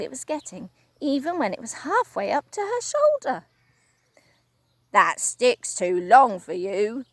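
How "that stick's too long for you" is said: slow, louder grumbling husband; a touch of gruff old man, needling; Mister Twit, gruff. Acted. Husband taunting his wife about her stick, gruff. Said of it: "Mister Twit said to her".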